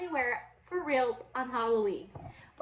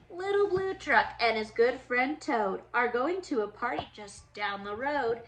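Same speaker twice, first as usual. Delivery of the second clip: lively storybook read-aloud for little ones; reading to children; 3 dB louder, slower than usual. Acted. Teacher reading a Halloween book to her class, lively storybook voice. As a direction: read it like story time for kids.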